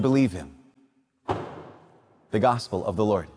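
measured, solemn liturgical reading; Gospel proclamation. Acted. Priest reading the Gospel at Mass, solemn and measured.

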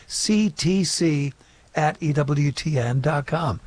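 slow, spaced-out repeat of the email address. Shown as a demonstration. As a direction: spell out "C T C" slowly, letter by letter. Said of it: "a little bit slower".

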